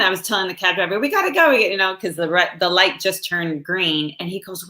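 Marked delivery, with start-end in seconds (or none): 1.0-1.5 much higher, pressing re-enactment; high-pitched push to leave; retold urgency. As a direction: hurry the driver along in a retelling. Urging the cab driver to go.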